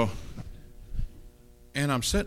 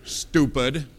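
playful rebuke; 4 dB louder than usual. Shown as a demonstration. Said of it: "needs to use that word sometimes".

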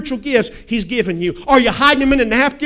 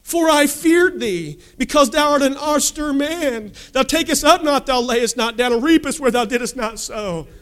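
higher whining excuse that settles toward the end; pitched-up sulky complaint; whiny voice; 4 semitones higher than usual. Retold or imitated. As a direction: whine it like a lazy servant caught out. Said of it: "saying it in a whiny voice".

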